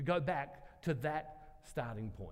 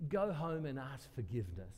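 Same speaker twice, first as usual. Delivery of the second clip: stone-faced serious; 4 semitones lower than usual. Retold or imitated. Woman mocking the pastor's advice to ask forgiveness, stone-faced serious. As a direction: quote her grave scorn, voice dropping away. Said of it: "she's stone-faced serious the whole time".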